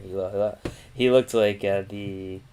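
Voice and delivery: tripping over the words; catching on each repeat; stuttering. Real, not acted. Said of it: "jeez, I'm stuttering".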